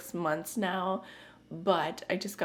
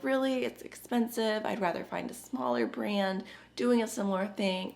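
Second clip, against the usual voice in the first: skeptical inner voice; 4 semitones higher than usual. Retold or imitated. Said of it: "But I'm like".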